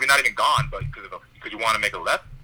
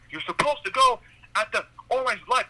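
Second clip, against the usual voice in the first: high, odd put-on voice of a grumpy old driver; mock the old man's complaint in a silly voice; cranky old man; 12 semitones higher than usual. Old driver scolding him at the light, hammed-up cranky voice. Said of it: "And he's like".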